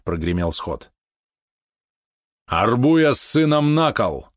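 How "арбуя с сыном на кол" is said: slow, raised decree; stern command. Acted. Murmanin orders the traitors impaled, slow and commanding. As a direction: pass the sentence with no room for appeal. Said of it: "повелел Мурманин".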